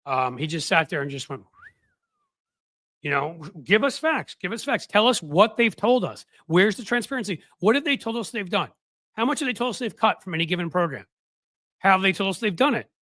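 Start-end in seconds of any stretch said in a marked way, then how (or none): 3.6-12.9 insistent demand. Retold or imitated. Acts out panelist demanding facts.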